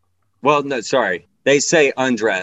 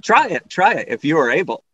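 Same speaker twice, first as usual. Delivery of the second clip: lightly voiced sing-song rhyme; rhyming doctor; 4 semitones higher, 3 dB louder than usual. Masseuse coaxing a client in rhyme, lightly playful. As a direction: coax in a playful storybook cadence.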